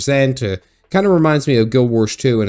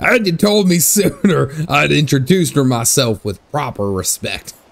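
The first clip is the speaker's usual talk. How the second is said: put-on salty pirate captain voice; 3 semitones higher than usual. Trying to read a character's line aloud: pirate voice. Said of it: "I try to read this pirate voice line".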